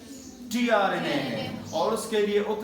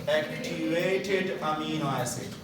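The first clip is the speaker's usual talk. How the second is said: धीरे-धीरे ज़ोर देकर उत्तर; 3 semitones lower, much slower than usual. Shown as a demonstration. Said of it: "this amino acid is now known as what?".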